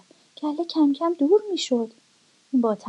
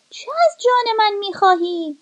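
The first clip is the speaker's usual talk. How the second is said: wolf; 8 semitones higher than usual. Acted. Wolf asks the dog.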